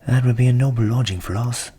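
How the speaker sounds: the cock, loud and keen; eager rooster voice; delighted rooster. A narrator's reading. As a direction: relish the idea of the house. Cock covets house.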